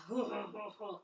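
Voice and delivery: demonstrated hoo-hoo belly laugh; mock laughter from the gut; hearty belly laugh. Shown as a demonstration. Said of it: "hearty laughter".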